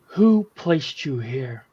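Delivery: slow, deliberate demand; measured in-character challenge. Acted. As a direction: demand it slowly, drawing out each word.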